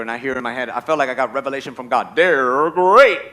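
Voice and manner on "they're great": cartoon mascot catchphrase, rolled and stretched; Tony the Tiger. Revelation heard in husband's head, cartoon mascot cheer. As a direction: roll into a big drawn-out finish. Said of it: "there's Tony the Tiger".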